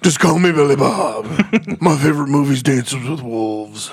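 put-on redneck voice, easy and lazy; tired redneck. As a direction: play Billy Bob the redneck. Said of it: "Tired Redneck".

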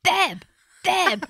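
high sing-song babe babe; couple baby voice. Retold or imitated. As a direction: coo it high and sweet. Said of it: "now we're like".

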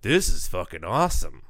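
lightly put-on mimicry; mock impression of host. Guest imitating the host imitating him, lightly mocking. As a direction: mimic someone's attempt at imitating you. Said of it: "me doing a good impression of you doing that".

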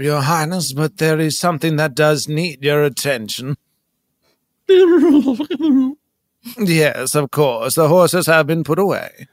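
lightly voiced courtly servant; royal servant. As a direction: report politely to the Highness, laughing between lines. Plays a royal servant on phone.

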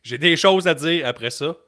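plaintes hautes, puis accélérées; râle comme un vieux lutteur aigri; lutteur râleur imité. Retold or imitated. Imite un lutteur qui se plaint. (voix de lutteur aigri qui se plaint)

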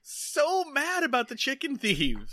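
talking through high laughter; laughing. Real, not acted. Joking with her co-host about the trigger word, laughing hard. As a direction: crack up while you say it.

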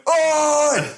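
high, drawn-out crowd shout; small riot. Retold or imitated. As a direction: yell in mock outrage with the whole audience. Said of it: "sort of small riot".

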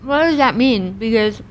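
talking with a mouth full; words round a bite of food. Real, not acted. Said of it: "I have so much food in my mouth right now".

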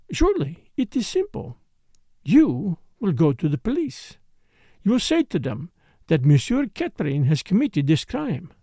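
put-on lightly accented dancer, brisk instructions; businesslike foreign dancer. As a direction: play the accented dancer laying it out simply. Voices the dancer Morel.

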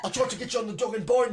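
a light Cockney lilt, quick and chirpy; quick cheeky Cockney bloke. Pretend. New Cockney friend greets Isla, in Cockney. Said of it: "hear me do that silly voice".

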